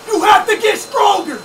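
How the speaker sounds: slow, shouted self-command; drawn-out yell of self-motivation; shouted pep talk. Real, not acted. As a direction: bark it at yourself like a coach.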